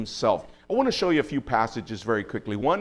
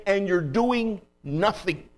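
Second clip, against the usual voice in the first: slow, raised-pitch reproach to God; crying out to God; 5 semitones higher, slower than usual. Retold or imitated. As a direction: voice the prophet's complaint, drawn out. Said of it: "he's crying out to God".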